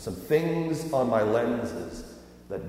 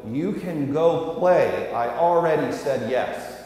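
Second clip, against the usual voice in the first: raised, drawn-out, emphatic mock interruption; talking over someone; 3 semitones higher, 4 dB louder, slower than usual. Dad interrupting his kids' litany, mock-emphatic and raised. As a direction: cut in firmly, stretching the words to be heard. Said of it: "literally talk over them and interrupt".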